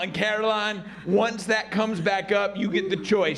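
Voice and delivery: firm, matter-of-fact coach ruling; a touch of no-nonsense teacher; lightly voiced gym coach. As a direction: lay out the options like a fed-up coach.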